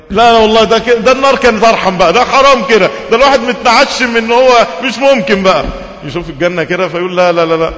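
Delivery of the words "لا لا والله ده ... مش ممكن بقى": high, loud exasperated cry; loud, high anguished complaint; anguished outburst. Acted. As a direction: cry out at unbearable torment. Man tormented seeing paradise.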